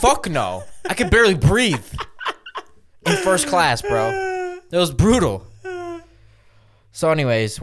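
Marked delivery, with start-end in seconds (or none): 0.0-5.5 laughing. Real, not acted. Laughing recalling painful flight.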